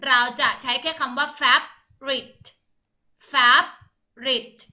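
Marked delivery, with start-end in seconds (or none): 1.4-4.6 "favorite" said as two split syllables, fav-rit. Shown as a demonstration. Teacher shows pupils the silent vo, "favorite" in two slow syllables, fav-rit. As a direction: say "favorite" slowly as fav, pause, rit, dropping the vo. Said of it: "ก็คือสองพยางค์นะคะ".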